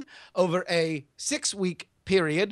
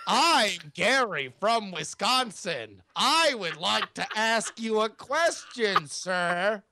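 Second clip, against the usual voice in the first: mocking impression with drawn-out opening; Gary; slower than usual. Weasel pretending to be his partner, ridiculous imitation. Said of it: "it sounds quite ridiculous when I do it".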